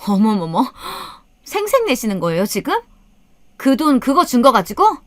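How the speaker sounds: high, affronted daughter-in-law retort; scornful disbelief. A narrator's reading. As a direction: scoff in rising, incredulous questions. Acted quarrel, daughter-in-law retorts. (기가 막힌다는 듯 높은 목소리로 쏘아붙이며)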